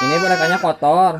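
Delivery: crying while talking; sobbing through the words; blubbering. Real, not acted. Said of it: "Jangan nangis lagi ya".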